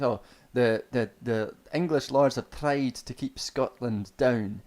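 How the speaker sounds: hammed-up fake Scottish accent with trilled "tr"; mock an actor's poor Scottish accent; bad actor's Scottish. Mimicking Hollywood actors' villain speeches, bad Scottish accent. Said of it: "when they try to do Scottish accents".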